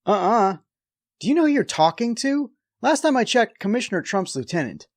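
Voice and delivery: high, sharp mock indignation; indignant retort. Riffing back at the lieutenant on screen, indignant and high.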